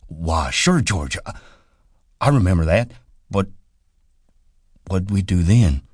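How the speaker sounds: a slow-witted giant clinging to the rabbits; eager, pleading Lenny; childlike Lenny. A narrator's reading.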